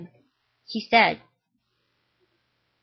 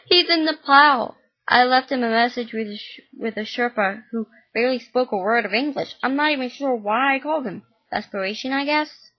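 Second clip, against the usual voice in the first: louder, higher bitter telling; bitter mom; 4 semitones higher, 5 dB louder than usual. Acted. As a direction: spit out her frustration. Mom bitter about absent father.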